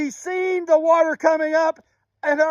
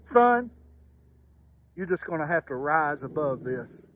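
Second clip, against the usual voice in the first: gentle motherly encouragement; 10 semitones lower, 6 dB quieter than usual. Retold or imitated. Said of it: "she would tell me".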